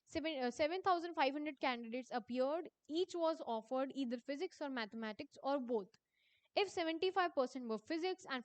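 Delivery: reading the exam question aloud, slowly and deliberately. Acted. Teacher reading a quiz question to her students, slow dictation. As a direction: dictate each word to the class.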